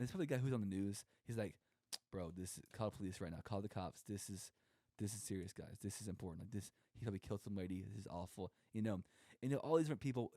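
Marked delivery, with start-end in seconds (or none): 2.1-8.5 a bit lower and softer, dead serious; mild hushed serious coworker; mock serious guy. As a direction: play it grave and urgent, lightly. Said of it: "super serious guy".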